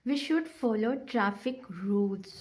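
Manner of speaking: slow statement ending on a rising "rules". Shown as a demonstration. Teacher demonstrating to students, slow with "rules" rising at the end. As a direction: read it slowly and lift the voice on "rules". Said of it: "अब आप देखें एंड पे हमारी आवाज़ क्या हुई".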